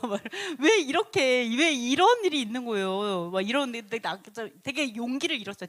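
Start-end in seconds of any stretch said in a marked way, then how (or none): 0.6-3.3 loud, acted "why me" lament; exasperated dismay. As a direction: voice a disheartened complaint with force. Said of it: "엄청 낙담하고 낙심하고 엄청 그랬어요".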